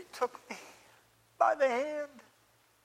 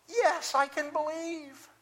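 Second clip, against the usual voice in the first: surge of belief; 4 semitones higher, slower than usual. Acted. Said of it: "it was this surge of belief".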